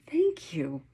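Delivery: breathy whispered thank you; hushed grateful thanks; whispered dog thanks. Acted.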